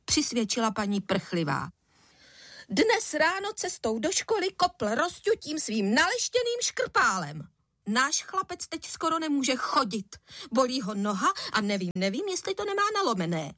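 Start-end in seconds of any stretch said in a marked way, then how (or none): 2.7-13.5 higher, rising indignant rant; an upset mother on the phone; outraged complaint. A narrator's reading. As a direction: pour out her grievance.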